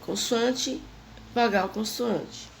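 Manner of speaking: consoante, vogal, consoante said slowly one by one; slow pattern reminder. Shown as a demonstration. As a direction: spell out the pattern slowly, word by word. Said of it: "é só lembrar". ("consoante, vogal, consoante" dito devagar, palavra por palavra)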